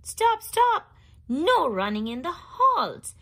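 high loud yell; yelling principal. Acted. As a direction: shout after the runaway monkey. Principal chasing George, yelling.

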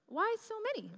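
high, puzzled mock question; puzzled boyfriend. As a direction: ask it like a confused teen boy.

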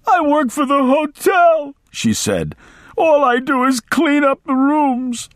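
put-on high old woman's voice; pleading old maid. A narrator's reading. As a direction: insist in a high frightened voice.

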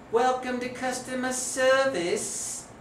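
Indian accent. Shown as a demonstration. Showing off an Indian accent to Wilbur, in Indian accent. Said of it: "like to hear my Indian accent".

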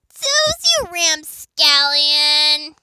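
slow, loud high call, vowels stretched. Acted. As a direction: draw the name out loudly. Acted calling out of a name.

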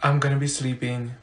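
low, soft grumble; muttered aside. Acted. Student muttering about weekend plans, low and soft. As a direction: say it low under your breath.

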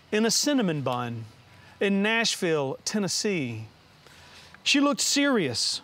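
slow, measured poem recital; unhurried verse with deliberate pauses; poetry reading. Acted. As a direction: read your poem aloud, line by deliberate line. Reads own poem aloud.

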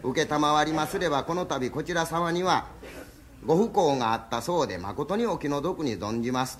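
slow, measured funeral greeting; wife teaching her husband the proper condolence words; formal condolence recital. Shown as a demonstration. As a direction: recite it slowly, word by word. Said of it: "わたいがおせてあげますさかい聞きなはれ。".

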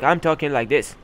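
deliberately put-on Arabic accent; mock Arabic accent. Shown as a demonstration. Streamer announcing the episode's voice, mock Arabic accent. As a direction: play up the Arabic-accented English. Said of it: "this episode will be like".

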